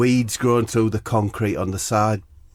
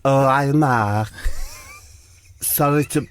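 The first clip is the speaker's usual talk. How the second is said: impression of a singer; 4 semitones higher than usual. Acted. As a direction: stretch the greeting in a put-on singer's voice. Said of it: "so it's a singer, right? He says".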